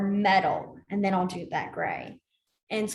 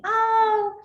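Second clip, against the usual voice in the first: mock polite euphemism; 4 semitones higher, slower than usual. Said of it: "nice ways of saying".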